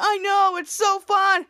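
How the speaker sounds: high, loud excited reply; mock giddy shout. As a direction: act out squealing with excitement. Acted shared thrill in rocket.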